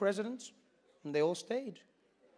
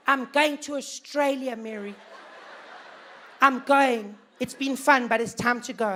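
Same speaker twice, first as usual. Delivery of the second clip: higher, anxious fretting voice, not whispered; worried emigrant; 4 semitones higher than usual. Retold or imitated. A worried white South African telling Mary he's leaving, fretting. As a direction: fuss and fret about leaving. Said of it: "You heard them whispering".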